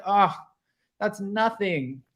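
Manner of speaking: put-on high British accent, breezy and dismissive; mock British accent. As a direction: offer the rosé in a sugary British lilt. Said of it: "this British, you know, accent".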